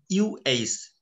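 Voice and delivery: short relaxed uh sound for ইউএইচ; schwa demo. Shown as a demonstration. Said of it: "শুয়া সাউন্ডের একটা main যে sound". (শুয়া সাউন্ডের ডেমো)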